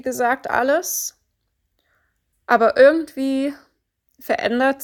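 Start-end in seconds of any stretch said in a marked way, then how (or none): 2.5-4.8 dramatic whisper. Acted. Coach hushes as the client sees nothing change, dramatic whisper. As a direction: whisper it as if sharing bad news. Dramatic hush before the setback.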